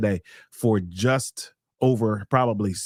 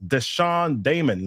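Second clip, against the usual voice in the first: ordinary talk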